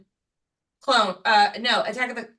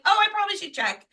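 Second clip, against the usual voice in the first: quick, higher thinking aloud; hurried realization; 9 semitones higher, faster than usual. Retold or imitated. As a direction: rush out the sudden thought. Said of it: "I'm like".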